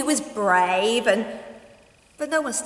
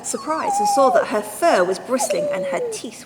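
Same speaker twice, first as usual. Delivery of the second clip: tense narration; 5 dB louder than usual. A narrator's reading.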